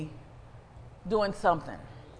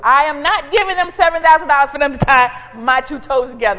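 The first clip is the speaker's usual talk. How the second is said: fast indignant refusal; 7 dB louder, faster than usual. Retold or imitated. Her refusal retold.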